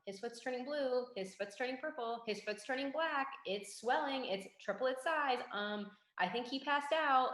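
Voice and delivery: high, mildly anxious running commentary; retold worried reporting. Acts out mounting worry over dog.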